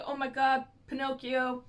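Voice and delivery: a playful retold panic; mock freak-out. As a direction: ham up the shocked gasp. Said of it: "she freaks out".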